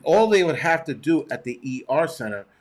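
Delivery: robot voice. Real, not acted. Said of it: "I don't know why I said it like a robot".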